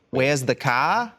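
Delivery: Australian accent. Shown as a demonstration. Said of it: "And then the others are like".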